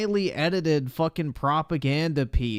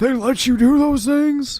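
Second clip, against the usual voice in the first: high, loud fake amazement; mock surprise; 12 semitones higher, 8 dB louder than usual. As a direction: gasp it out like a shocked fan. Mocking the clip's fake surprise.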